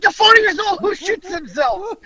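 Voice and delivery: very high, incredulous mock-dad rant; retold dad's yelling. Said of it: "my dad is yelling at me".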